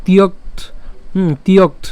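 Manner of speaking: তিয়ক্ত closed on a "kt" cluster; pronounced up to t. Shown as a demonstration. Teacher repeating for learners, তিয়ক্ত ending in "kt". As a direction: stop তিয়ক্ত crisply on the t. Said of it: "ক এই ত পর্যন্ত উচ্চারণ করে".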